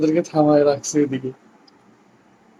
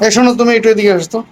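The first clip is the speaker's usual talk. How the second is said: fast, raised call to someone away; yelling across the room; 6 semitones higher, faster than usual. Acted. Husband calling wife over.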